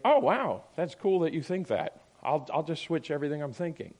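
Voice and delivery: sarcastic pretend agreement; mock amazement. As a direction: feign being instantly won over. Mocks the expected easy agreement.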